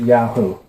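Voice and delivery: Yahoo said "YAH-hoo"; preferred pronunciation. Shown as a demonstration. Teacher showing the supposed correct form, Yahoo said "yah-hoo". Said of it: "you're supposed to pronounce it".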